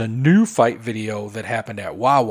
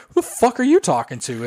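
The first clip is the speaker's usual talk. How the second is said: retold angry comeback; 5 semitones higher than usual. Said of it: "she got crazy".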